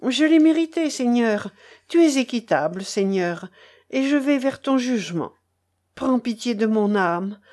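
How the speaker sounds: a hint of an old man's bitter lament; old grandfather lamenting to the boy; lightly voiced grieving grandfather. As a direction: plead and reproach with hurt pride.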